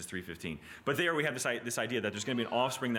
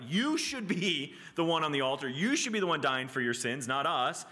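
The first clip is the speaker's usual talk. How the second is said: raised-pitch preacher's accusation, easing off; crying out; 6 semitones higher than usual. Acted. Animals on the altar to sinners, crying out. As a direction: stress YOU as the animals' protest. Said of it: "are crying out".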